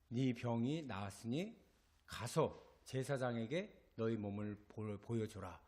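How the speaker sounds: a hint of solemn authority, low and measured; lightly voiced Jesus. Jesus sends lepers to the priest, lightly acted low, slow command.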